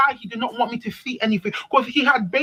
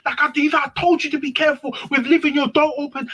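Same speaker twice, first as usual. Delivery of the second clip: his fake outrage, higher; 5 semitones higher than usual. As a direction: ham up the lying boyfriend's anger. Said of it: "he jumped on".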